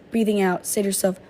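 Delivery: slow, calm breathing cues; guided meditation. Acted. To her viewers, slow calm breathing guidance. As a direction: lead the breath gently and slowly.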